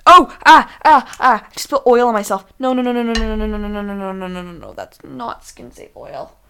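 panicked cries trailing off; mock panic. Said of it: "my mom was like".

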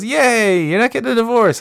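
put-on high squeaky kid cheer. Kid cheering parents staying married, high squeak. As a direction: chirp it like a happy child.

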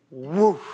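low whoosh of someone toppling; imitated whoosh. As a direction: make a quick falling-over noise. Imitates interpreter suddenly going down.

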